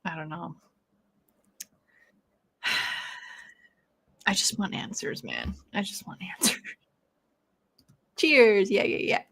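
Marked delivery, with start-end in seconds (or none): 0.0-6.6 weary whisper. Real, not acted. Deflated after chilling story.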